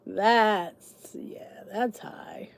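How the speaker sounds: hushed aside under the breath; whispering. Real, not acted. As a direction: whisper it to yourself. Reacting to a high price.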